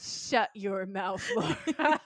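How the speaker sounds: slow, drawn-out mock rebuke, breaking into laughter; mock indignant. Joking back at Laura's message, mock indignant. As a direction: shut her down slowly, giggle on the name. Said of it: "And I was like".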